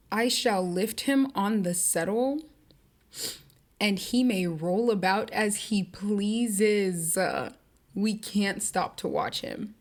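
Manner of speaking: slow, deadpan reread; slow deadpan dismissal; cold Nellie, reread. Retold or imitated. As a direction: savour how heartless it sounds. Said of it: "Why would you say that like that?".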